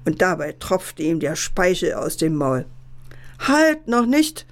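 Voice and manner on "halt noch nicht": high, drawn-out halt; slow, raised-pitch storybook objection; objecting. A narrator's reading. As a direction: hold the wolf back, slowly. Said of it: "entgegnete der Fuchs".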